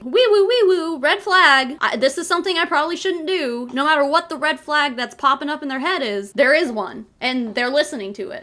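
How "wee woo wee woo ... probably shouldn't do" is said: brain's alarm voice. Retold or imitated. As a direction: play the brain sounding a playful alarm. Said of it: "their brain is being like".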